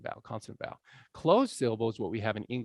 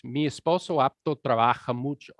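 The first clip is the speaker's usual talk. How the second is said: "Mi esposo apto trabaja mucho" as one long jumbled word; connected Spanish, word boundaries blurred in "Mi esposo apto trabaja mucho"; merged into one word; 4 dB louder than usual. Shown as a demonstration. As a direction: run all of "Mi esposo apto trabaja mucho" together without gaps. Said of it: "It all becomes one jumble of one really long word".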